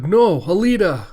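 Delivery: high, loud cry of alarm; anguished shout. Acted. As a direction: scream her name as she falls. Ito sees Alita hit.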